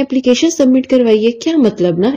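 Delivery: mock bewildered repeat, as if the word is foreign; puzzled echo. Friend echoing the question back, imitated as baffled. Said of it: "انہوں نے مجھے اس طرح سے بولا".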